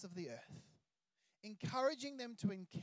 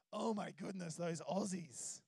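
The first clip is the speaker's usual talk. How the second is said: mild foreigner voice; 3 semitones lower than usual. Retold or imitated. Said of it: "other people not from Australia go".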